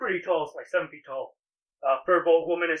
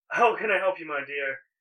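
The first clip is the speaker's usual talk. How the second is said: put-on voice of a young male elf. Voicing a young elven male who greets a customer: young elven male voice. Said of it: "young elven male comes over, and he goes".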